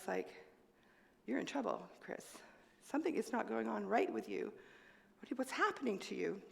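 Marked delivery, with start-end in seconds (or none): 1.3-6.4 hushed inner voice. Retold or imitated. Inner voice while falling ill.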